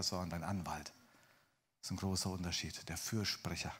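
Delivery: low, soft, earnest tone; gentle reassurance. Real, not acted. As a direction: reassure them quietly and sincerely. Preacher reassures the listeners about grace.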